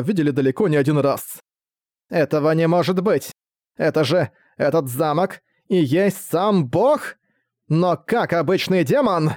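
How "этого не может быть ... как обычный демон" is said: shaken disbelief. Acted. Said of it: "будто видела плохой сон".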